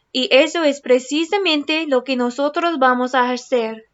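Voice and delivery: storybook read-aloud, gentle and lively; reading to children. Acted. Teacher reading a picture book to her class, lively storytelling. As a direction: read it like bedtime story time.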